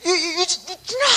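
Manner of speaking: loud, high stammering yell at the son; shouting a name. Retold or imitated. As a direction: yell his name in shock. 아들 부르며 소리침. (우유 마시는 아들을 보고 높고 크게 부르는 고함)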